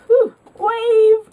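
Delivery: high, loud party whoop; loud mock-drunken cheer; tipsy whoop. Imitating tipsy friend being wild.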